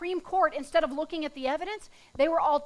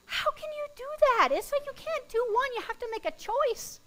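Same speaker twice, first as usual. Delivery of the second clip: mock crying woman; 10 semitones higher than usual. Mocking women crying while talking.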